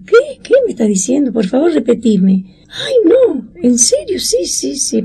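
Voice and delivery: high, astonished cry that breaks into tears; reliving Estela's shock at the news; stunned disbelief. Retold or imitated. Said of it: "Dice Estela". (incredulidad emocionada, aguda y al borde del llanto)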